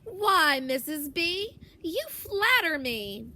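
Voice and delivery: opens high and loud, then slow and bashful; lightly voiced old man, flattered; a touch of a charmed old gentleman replying; George. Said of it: "says Missus Baker".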